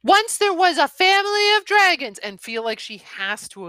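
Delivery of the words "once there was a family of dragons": high, loud, sing-song fairy-tale start; hammed-up high story opening; mock storybook opening. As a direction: parody a cliched once-upon-a-time. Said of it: "she didn't feel the need to be".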